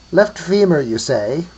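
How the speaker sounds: put-on croaking old voice, starting high and loud; ancient croak. A narrator's reading. An old one answers from nearby, ancient croaking voice. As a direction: croak it back like an ancient creature. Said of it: "came an ancient croaking voice from nearby".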